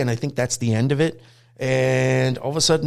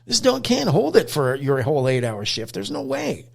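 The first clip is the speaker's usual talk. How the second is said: higher-pitched incredulous telling-off; exasperated scolding; 6 semitones higher than usual. Retold or imitated. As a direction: lecture her in disbelief. Scolding dog owner about her dog.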